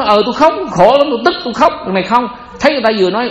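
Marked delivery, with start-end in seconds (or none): 0.0-1.7 high, whiny mock crying voice; mock tearful admission. Monk imitates a crying woman admitting her grief, high and whiny. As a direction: play a woman confessing she cried, hammed up.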